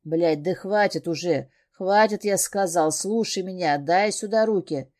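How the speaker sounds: loud cold barked commands; a captor losing patience, thundering. Acted. Captor thunders at the thrashing heroine to stop, cold anger. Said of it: "Бес гремит своим холодным голосом".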